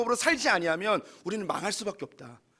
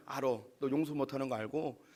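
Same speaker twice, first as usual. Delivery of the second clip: God gently reasoning with Jonah; gentle God voice; 5 semitones lower than usual. Acted. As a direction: speak as a gentle father correcting kindly. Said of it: "어떻게 이해하시면 좋냐면".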